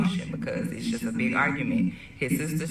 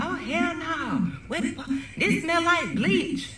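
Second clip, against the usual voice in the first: animated sister. Retold or imitated. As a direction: belt it out like the rowdy sister. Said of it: "very animated and dramatic".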